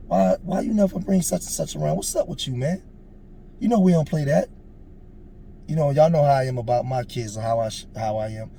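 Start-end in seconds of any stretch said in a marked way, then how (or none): 0.1-4.5 higher-pitched challenge to a friend; retold indignant confrontation; heated confrontation. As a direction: call him out, indignant. Retells confronting his friend in argument.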